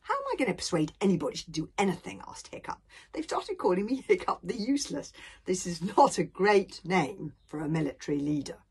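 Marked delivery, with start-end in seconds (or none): 0.0-2.2 put-on quick, loud, higher young voice; doubting boy Hiccup. 3.1-8.6 put-on aggrieved boy Hiccup.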